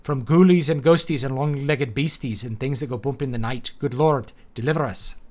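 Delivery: attempted Scottish accent on "From ghoulies and ghosties"; an old Scottish prayer in an attempted Scottish accent. Shown as a demonstration. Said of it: "I try to do that in a Scottish accent".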